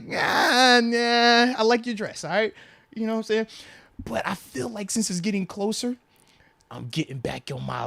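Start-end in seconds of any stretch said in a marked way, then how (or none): 0.0-2.5 loud, higher, half-crying protest; strained dad. Retold or imitated. Dad replaying his reply to his daughter, mock anguish. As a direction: plead it through a mock sob. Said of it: "I'm just like".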